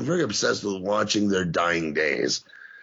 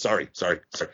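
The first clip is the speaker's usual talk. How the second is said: mock apologetic; 4 semitones lower, much faster than usual. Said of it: "He's, like, apologetic".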